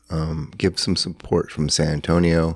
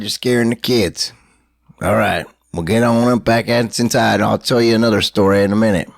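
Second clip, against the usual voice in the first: put-on belligerent drunk; 3 semitones higher, 3 dB louder than usual. Comedic drunk rant intro clip.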